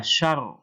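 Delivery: "syar" with a long, doubled r. Shown as a demonstration. Teacher showing two ro to pupils, doubled r in "syar". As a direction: hold the rolled r at the end of "syar". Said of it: "Ini ada dua ro".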